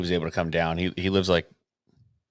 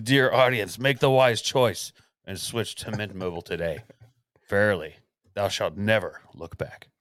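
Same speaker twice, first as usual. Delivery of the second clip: grand Shakespearean ad read; hammy stage actor. Acted. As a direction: ham it up like an old stage actor. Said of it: "Your Chat G P T is funny".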